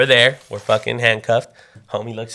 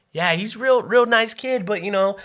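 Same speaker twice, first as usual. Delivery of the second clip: lightly voiced officer, higher pitched; placating cop; 7 semitones higher than usual. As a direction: imitate a cop smoothing things over. Cop placating mother, acted.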